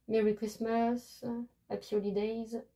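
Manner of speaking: English greetings in a French accent. Real, not acted. Crafter reading out holiday captions, French-accented English. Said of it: "parce que moi et mon anglais".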